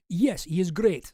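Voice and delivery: slow put-on Russian accent; Boris with Russian accent. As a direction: switch into mock-Russian, slowly. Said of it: "This is also from Boris".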